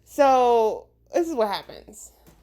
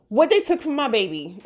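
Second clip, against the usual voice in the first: mama bear; 2 semitones higher than usual. Retold or imitated. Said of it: "the mama bear of, like, you know, black mamas".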